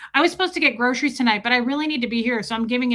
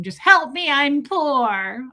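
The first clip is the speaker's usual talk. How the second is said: mock plea; 2 semitones higher, 5 dB louder, slower than usual. Streamer jokingly begs viewers for money, mock pleading. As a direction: plead poverty as a joke.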